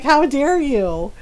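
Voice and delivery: slow, mildly outraged retort; mock indignation. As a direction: imitate an affronted man, drawing it out. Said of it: "he gets mad at me".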